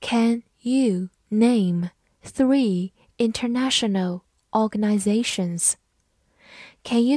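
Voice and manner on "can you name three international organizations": slow, careful word-by-word reading; deliberate model reading. Shown as a demonstration. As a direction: read it slowly for learners. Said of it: "好，慢读一遍".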